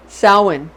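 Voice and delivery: Samhain alone, said SOW-en; correct pronunciation. Shown as a demonstration. Repeating it for listeners, Samhain as SOW-en. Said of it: "pronounced Samhain".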